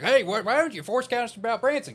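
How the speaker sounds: high, loud, whiny mock of a complaining viewer. Forecaster mimicking viewers who nag about Branson, high loud mock whine. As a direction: squeak it out like an annoyed commenter. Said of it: "people are like".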